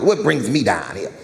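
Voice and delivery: imitating dad's talk. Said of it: "This is how he talk".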